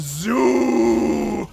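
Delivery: high loud whoop into laughter; laughing cheer. Real, not acted. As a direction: whoop then laugh hard.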